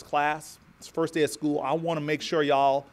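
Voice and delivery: lightly voiced Southern schoolteacher; Southern accent. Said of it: "it's the best Southern accent I can do".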